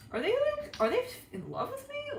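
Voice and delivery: very high-pitched mock questioning; incredulous wondering. Reader voicing a date wondering about being loved, high incredulous question. Voices the partner's anxious wondering.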